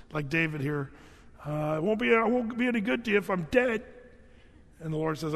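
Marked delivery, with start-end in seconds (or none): 1.8-3.8 quick, high mock-urgent plea; playful, hurried higher-pitched appeal; acted pleading. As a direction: blurt a bargain to save yourself. David pleading with God, acted.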